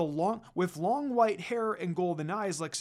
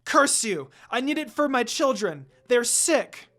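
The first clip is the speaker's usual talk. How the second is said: loud, higher desperate cry; roaring; 5 semitones higher, 8 dB louder than usual. A narrator's reading. Mother demon defending her pups, roaring loud. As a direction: roar it out for her sick children. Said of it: "roared in a weak voice".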